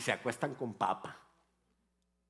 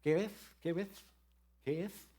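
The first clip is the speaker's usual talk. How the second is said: niña pidiendo algo; 5 semitones higher than usual. Retold or imitated. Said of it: "Steffi me decía".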